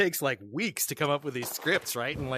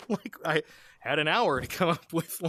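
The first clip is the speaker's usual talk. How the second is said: ordinary talk, nothing marked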